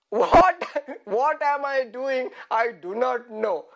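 hammed-up exasperation with laughter breaking in; mock frustration. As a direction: burst out on WHAT, then slow down. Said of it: "first frustration of an angry man".

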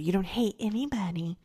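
half-whispered imitation of grandma; grandmother's hushed admonishment. Grandmother telling a child not to hate, imitated half-whispered. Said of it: "she would say".

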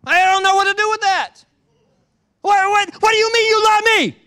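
high, loud bewildered outburst; loud confused protest; baffled. Pretend. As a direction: thrown off by kindness. Confused aggressor responds.

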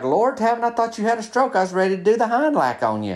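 high-pitched, worried friend; mock alarm. Friend feared he had a stroke.

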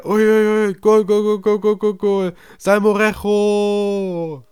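loud, high goal call, name stretched out; stadium announcer. Retold or imitated. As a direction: shout the goal to the whole stadium. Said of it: "Oder, oder der andere".

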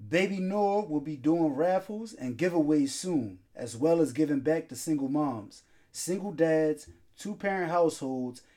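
measured sponsor read. Acted. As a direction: read the sponsor copy in even phrases. Reads the sponsor's ad.

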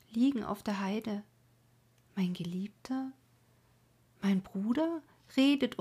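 put-on a mournful young woman keening by night, by turns calling out and whispering; grieving maiden's lament. Maiden mourns lover and brother on the rock, keening. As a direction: sing out her grief over the dead lover and brother. Colma's lament read as a voiced figure.

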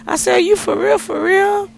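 overjoyed shout; excited shouting. Retold or imitated. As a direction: yell it, can't believe it. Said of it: "I'm up there shouting".

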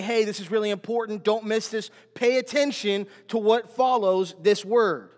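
voicing an emphatic call for attention; emphatic alert. New Testament writers flagging a key word, imitated emphatically. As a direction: press the point as if flagging it for readers. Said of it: "it was their way of saying".

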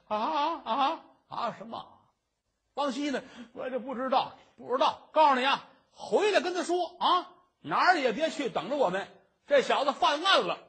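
put-on bully the old woman with threats; a constable shouting at the terrified old woman; barking constable.

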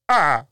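short choked sob noise; mock stifled sob; re-enacted burst of crying; imitated cry. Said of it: "I was crying too".

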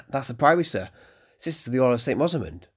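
put-on eager young innkeeper's son; young Malcolm.

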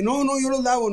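high mock voice of a mother insisting; imitating his mother. Son voicing his mother refusing help, high mock voice. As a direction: pitch it up like mom refusing help.

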